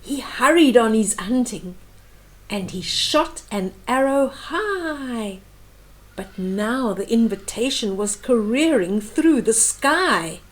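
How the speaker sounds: rhythmic read-aloud of a rhyming book; storybook reading voice; story narration. A narrator's reading. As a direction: read the verse gently to a small child. Reads picture book aloud.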